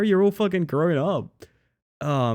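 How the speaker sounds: ordinary talk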